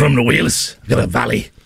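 put-on Welsh for the co-host to copy; Welsh accent. Shown as a demonstration. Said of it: "the international accent of flags".

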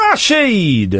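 rolled, drawn-out R on the name; showy introduction. Acted. Host bringing on his guest, showy rolled call. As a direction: announce the guest with a long trill.

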